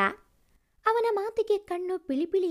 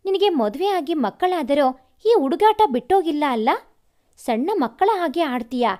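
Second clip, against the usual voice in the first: mild scolding; 4 dB louder than usual. Acted. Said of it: "ಎಂದು ರೇಗಿದರು".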